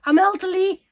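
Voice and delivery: high, loud mock wail of an old dog; elderly dog act. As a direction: moan dramatically as the worn-out pet. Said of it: "she comes home and she's like".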